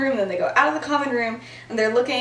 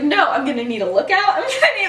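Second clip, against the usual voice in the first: laughing quote; 4 semitones higher, faster than usual. Retold or imitated. Lily's plan retold with laughter.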